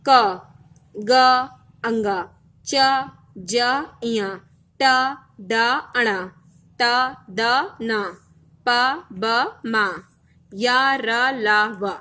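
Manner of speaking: letters like क and ग, little breath, pauses between; unaspirated consonants. Shown as a demonstration. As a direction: recite each letter separately, with little air. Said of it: "जिसके उच्चारण में वायु कम मात्रा में लगे".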